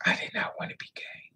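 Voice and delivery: real hushed whisper, words barely voiced; breathy confession, almost no voice. Real, not acted. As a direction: drop to a whisper as you repeat it. Repeats the line, now whispered.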